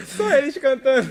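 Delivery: laughing. Real, not acted. Guest laughing at own joke.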